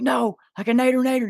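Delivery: high put-on voice insisting; high insistent correction. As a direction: correct him, goofy.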